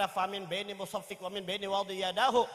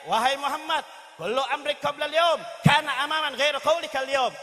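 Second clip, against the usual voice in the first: raised, high-pitched scornful harangue; Mut'im bin Adi shouting; 4 semitones higher than usual. Acted. Mut'im dismisses Muhammad's earlier words before the crowd, shouting. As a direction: shout it as a public challenge. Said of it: "Mut'im bin Adi teriak".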